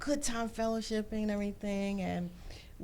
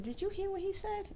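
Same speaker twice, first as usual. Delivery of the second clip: much higher, reliving the shock; stunned disbelief; 13 semitones higher than usual. Retold or imitated. Mother asking friend after hearing the news, in higher stunned disbelief. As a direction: ask it as if you can't believe it. Mother hears of daughter's death.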